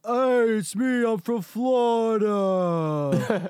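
slow, drawn-out mock Florida accent. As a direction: ham up a Florida accent, slowly. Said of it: "a Florida accent".

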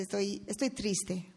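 retold child sadness. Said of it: "Y dice".

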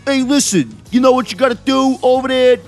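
put-on uncle giving instructions; Uncle Mario. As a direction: lay down advice like a streetwise uncle. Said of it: "We should have Mario teach sex ed".

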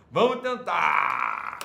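very slow, stretched, exaggerated; mock weary insistence. Real, not acted. Host pretending patience with viewers, stretched sarcastic insistence. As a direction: drag it out sarcastically. Exaggerated repeat of line 146.

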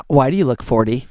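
low laughing quote. Retold or imitated. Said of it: "she's like".

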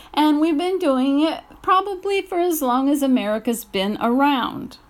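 rising real anger; angry rant. Real, not acted. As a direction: hammer the point home in anger. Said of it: "I'm just really angry".

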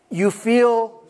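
weary drawn-out "feel stressed"; slow, drawn-out stressed. Acted. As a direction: drag the words out heavily. Pastor drags out the word.

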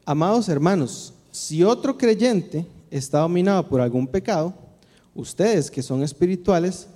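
measured, solemn Bible reading; scripture reading. Acted. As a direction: read the passage to the congregation with weight. Rereads key verse aloud. (lectura bíblica solemne y pausada)

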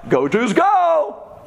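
high, slow stretched fan chant; drawn-out mock cheer. Preacher retelling the turncoat cheer, slow high mock chant. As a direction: drag out the chant like a stadium crowd. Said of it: "rooting for whoever's winning".

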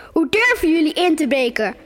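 put-on girl reading an angry man shouting through the window; angry call. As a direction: scold the intruders from outside. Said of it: "riep een woedende stem van buiten".

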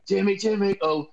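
sung in a Northern Irish accent. Shown as a demonstration. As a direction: chant it like a Belfast football terrace. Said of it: "you have to sing it in Northern Irish accent".

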